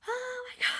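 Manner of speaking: very high squeal, held in; re-enacted high-pitched disbelief; retold overwhelmed gasp. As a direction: squeal it, stifled because you can't yell. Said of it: "I just lost it".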